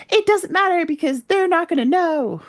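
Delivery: high, gloating villain voice, lightly done; a hint of a smug traitor brushing it off. Retelling Jerry gloating to the ambassador, in a high mock smug voice. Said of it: "And Jerry's like".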